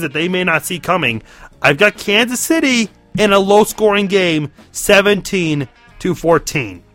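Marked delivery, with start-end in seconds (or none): 1.6-6.8 rough voice. Real, not acted. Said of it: "Sorry for the rough voice".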